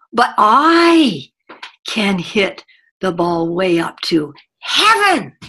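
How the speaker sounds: lightly voiced boasting kid, slowing at the end; bragging little boy. Trainer imitating the third boy outdoing the others, mild boast. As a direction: top the last boy, drawing it out. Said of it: "The third little boy says".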